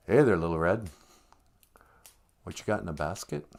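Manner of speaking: lightly voiced creepy wolf; a touch of sly creepiness. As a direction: sidle up to her, creepy and casual. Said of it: "just creepy like that".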